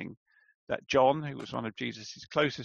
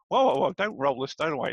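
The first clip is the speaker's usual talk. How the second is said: hammed-up, louder objection as Martha; mock alarm; 5 dB louder than usual. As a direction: play a comic, hasty attempt to stop someone.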